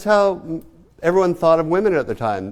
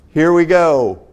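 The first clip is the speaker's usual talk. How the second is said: laughing out the words, louder and slow; 3 semitones higher, 6 dB louder, slower than usual. Real, not acted. Lecturer laughing as she moves the class on. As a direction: chuckle through it as you move on.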